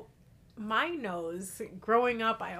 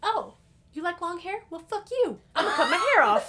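high, laughing defiance; defiant laughing; 9 semitones higher, 6 dB louder than usual. Retold or imitated. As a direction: spit it out with a laugh. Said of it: "I was like".

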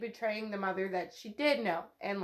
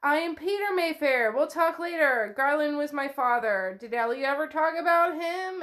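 higher and louder, pressing introduction; pushy relative; 5 semitones higher, 4 dB louder than usual. Retold or imitated. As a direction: push yourself on her with a booming hello. Relative introduces himself pushily.

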